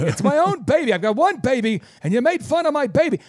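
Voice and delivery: mock offended owner. Offended website owner ranting at the business coach, mock outrage. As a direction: act wounded and outraged, over the top.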